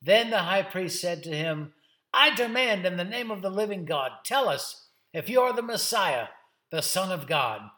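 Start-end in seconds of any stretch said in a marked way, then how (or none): 2.1-7.7 raised, loud official challenge; forceful demand. Acted. High priest commanding Jesus to answer, forceful. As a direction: demand an answer, settling at the end.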